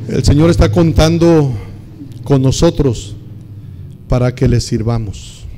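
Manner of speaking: fervent pulpit emphasis; emphatic preaching. Real, not acted. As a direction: drive the point home. Preacher stresses key line.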